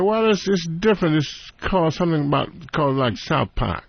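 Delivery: imitated English accent, starting high; British agent. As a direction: explain hesitantly in a put-on English accent. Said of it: "he's a British guy".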